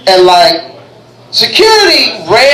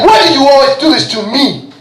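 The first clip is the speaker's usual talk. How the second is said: higher-pitched mock indignation; mock angry; 4 semitones higher than usual. African traveller objecting to being searched, mock angry. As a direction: act out an exasperated protest. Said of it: "He got angry".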